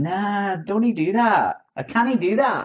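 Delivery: mock Scottish accent of a roommate; imitating Scottish roommate. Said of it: "he was always saying".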